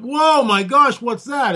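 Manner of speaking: retold startled "whoa", rising high then dropping; surprised reaction. Retelling the team's reaction to the implant, surprised. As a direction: re-enact a group's amazed double take. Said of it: "And we all went".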